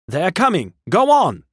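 alarmed shouting. A narrator's reading. Crowd fleeing the Martians, shouting in alarm. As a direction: urge them on in panic. Frightened crowd urging the man on.

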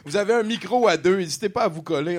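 annonce forte et enjouée; animateur de spectacle. Acted. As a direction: chauffer la salle. Anime la soirée. (voix d'animateur énergique)

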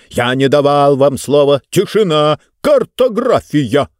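stern command. Acted. Speaker silences the room.

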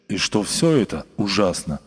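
plain reading voice

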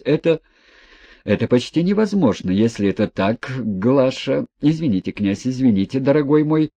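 a lightly voiced agitated father; flustered father. Father stammering apologies to the prince, flustered. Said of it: "сильно волнуясь".

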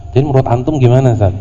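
rude asker. Retold or imitated. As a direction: fire it off rudely. Acting rude pointing. (pertanyaan cepat dan kurang sopan)

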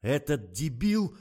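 high, loud, slow howl of fury; outraged yell. A narrator's reading. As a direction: yell it drawn out, rising at the end. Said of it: "завопил Николай".

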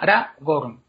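"ra, gorn" as two separate syllables. Shown as a demonstration. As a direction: break "ra, gorn" apart with a pause. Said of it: "dividimos el nombre en sílabas".

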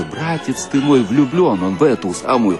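ordinary delivery

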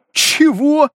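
shrill shocked what. A narrator's reading. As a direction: leap up in disbelief. Hero shocked, jumps up.

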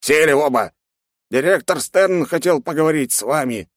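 curt order. Acted. Curator ordering students.

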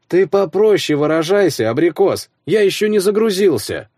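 high, groggy half-awake voice; a just-woken friend grumbling; sleepy friend. A narrator's reading. Sleepy friend Slavka on phone.

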